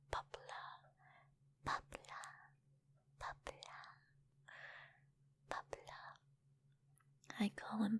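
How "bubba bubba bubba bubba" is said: softer, spaced-out whispered repeats; ASMR word repetition, trailing softer; hushed name repetition. Real, not acted. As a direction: whisper the name as a fading echo.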